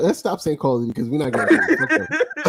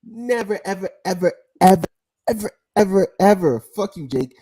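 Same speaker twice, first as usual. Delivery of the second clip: ranting vow; 3 semitones higher, 4 dB louder than usual. Real, not acted. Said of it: "full rant".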